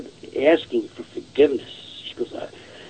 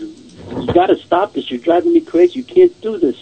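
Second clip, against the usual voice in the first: imitating her distressed plea, higher voice; retold tearful plea. Woman begging her dead father to stop, retold tearful plea. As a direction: plead as she did, pitched up. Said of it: "she started crying again".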